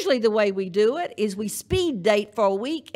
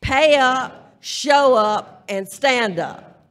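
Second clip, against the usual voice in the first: slogan called out louder, the last stretched slow; louder call and response; 5 dB louder, much slower than usual. Shown as a demonstration. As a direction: lead the crowd in repeating it loudly. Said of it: "Now, say that".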